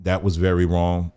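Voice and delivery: low, gentle retold complaint; calmly and kindly point out a wrong; kindly firm. Customer explaining the incident to store manager, kindly. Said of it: "I told him very kindly".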